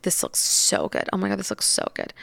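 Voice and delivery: softly cooed retold praise, voice dropped; hushed admiration. Injector admiring the client's lips mid-treatment, hushed admiration.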